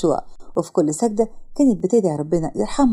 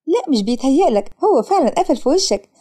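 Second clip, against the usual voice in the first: laughing teasing; 4 semitones higher than usual. Acted. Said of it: "ميتة من الضحك".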